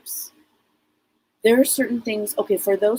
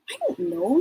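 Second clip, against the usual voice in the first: put-on high, shy child voice; lightly voiced little girl; 7 semitones higher than usual. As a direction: shrug it off like a small girl. Voicing child spirit.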